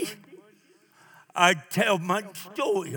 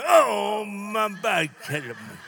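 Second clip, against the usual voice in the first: mock complaining. Preacher imitates church people answering "how you doing", mock complaint. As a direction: groan it out as a mild send-up.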